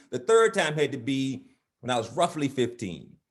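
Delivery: measured, rhythmic poetry recital; spoken-word poem. Acted. Poet reciting his poem about life's fights, measured. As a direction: recite it in cadenced lines with pauses.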